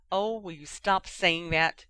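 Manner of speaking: slow, exasperated snap; fed up, bite it out; snapping. Acted. Ginny to Harry, sick of his excuse, snapping. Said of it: "Ginny snapped".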